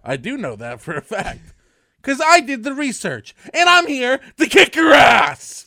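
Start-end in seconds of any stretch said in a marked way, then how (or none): 2.0-5.7 loud, high hype-man shout; hyped shout. Acted. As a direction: fire up the crowd. Hyped debate opener.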